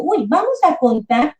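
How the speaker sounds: put-on counting with a child. Shown as a demonstration. Teacher counting Lego pieces to her son, slow and playful. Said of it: "le voy contando".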